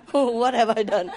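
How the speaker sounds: slow, laughing What have I done; laughing dog voice. Retold or imitated. Voicing the shocked dog while laughing, slow. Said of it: "Who was looking at me?".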